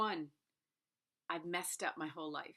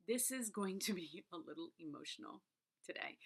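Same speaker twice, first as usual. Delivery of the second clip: emotional; 6 dB quieter than usual. Real, not acted. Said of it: "I was getting emotional".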